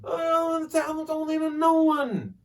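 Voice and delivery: high, slow indignant denial; losing it, retold. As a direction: act out a heated rebuff. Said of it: "I'm still losing it".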